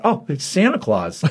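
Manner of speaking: real chuckle at the reveal; laughing realization. Real, not acted. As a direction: let the laugh break through the realization. Realizing twist while laughing.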